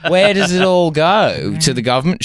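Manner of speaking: lightly put-on Australian accent. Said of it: "So I'm gonna sound Australian".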